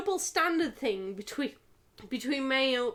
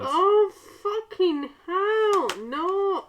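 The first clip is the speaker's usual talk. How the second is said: loud, high pained cry; real pain; 7 semitones higher, 7 dB louder, much slower than usual. Real, not acted. Hurt by the falling keyboard, crying out loud. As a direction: yelp from the hit.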